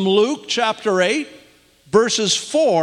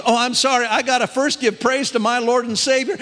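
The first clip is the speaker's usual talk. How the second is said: higher voice imitating an overjoyed caller; retold emotional outburst; 6 semitones higher than usual. Imitating a reinstated worker breaking into praise, excited. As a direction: play her breaking into praise, voice lifted. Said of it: "and then she breaks".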